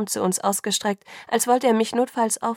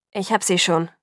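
slightly winded from carrying her; a little out of breath; 4 dB louder than usual. A narrator's reading. Father carrying his daughter refuses help, a little out of breath. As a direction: say it a bit breathless, still insisting. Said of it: "sagte Charlie ein wenig außer Atem".

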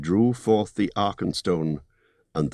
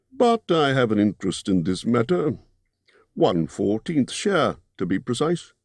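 高めの声で、きちんとした商談口調のホビット; 取引をまとめるように几帳面に話す; businesslike Bilbo; 2 semitones higher than usual. Acted. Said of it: "in his best business manner".

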